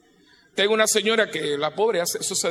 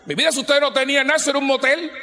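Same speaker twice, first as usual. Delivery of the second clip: fast, higher, louder, laughing; laughing, raised punchline; laughing exclamation; 6 semitones higher, 3 dB louder, faster than usual. Real, not acted. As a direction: blurt it out through laughter.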